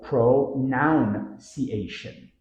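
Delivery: pronunciation slowly as pro-NOUN-see-ation; extra O. Shown as a demonstration. Teacher imitating learners' mistake, extra O. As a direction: put noun in the middle of pronunciation. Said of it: "adding an extra O after none".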